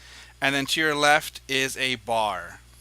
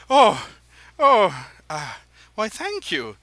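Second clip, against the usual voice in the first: much higher, fluttery dandy voice; flattered dandy; 11 semitones higher, 5 dB louder than usual. Acted. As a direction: gush like a flattered fop.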